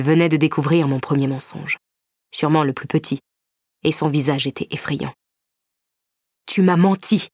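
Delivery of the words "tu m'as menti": stunned exhale. A narrator's reading. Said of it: "exhala-t-il, stupéfait".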